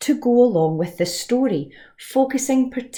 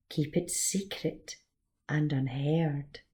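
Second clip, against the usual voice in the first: whisper; 3 semitones lower, 9 dB quieter than usual. Acted. Story's moral, hushed.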